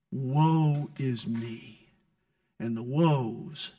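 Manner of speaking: slow, low, sighing mock whine; mock self-pity. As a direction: wallow in it, half-joking. Mocking pastors' self-pity.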